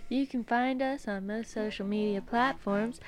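upbeat announcer read; infomercial voice. Real, not acted. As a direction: sell it like a TV ad. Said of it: "You don't like my infomercial voice?".

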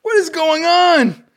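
high, slow disbelief; baffled. Real, not acted. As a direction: react in total confusion. Friend baffled by singing.

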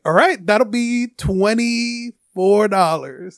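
slow southern drawl, imitating a cashier; mock southern cashier voice; southern accent. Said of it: "putting on this southern accent".

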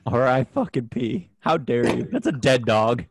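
loud, hammed-up indignation; mock outrage. Scolding his friend for insulting a dead dog, mock angry. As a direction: act offended on the dog's behalf.

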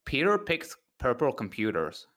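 careful put-on American accent; practice American accent. Shown as a demonstration. British speaker trying a practice sentence, put-on American accent. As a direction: sound out each word in American. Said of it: "practice American accent is by saying".

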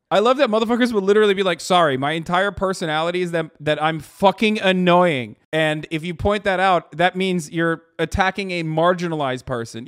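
shouting a parody quote; loud mocking rant. Real, not acted. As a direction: bellow the parody. Mocking rad libs, loud rant.

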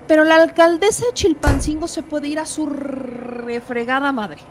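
loud, furious cursing; angry outburst. Real, not acted. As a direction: spit the insult out in anger. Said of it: "exprese mi francés de esta manera".

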